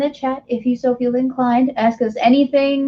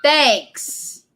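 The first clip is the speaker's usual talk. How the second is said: mock sulking; slower than usual. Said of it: "Am I sulking a little?".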